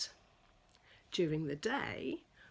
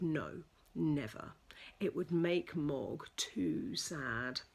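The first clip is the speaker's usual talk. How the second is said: gentle reply; 4 semitones lower than usual. Acted. Mother's gentle answer.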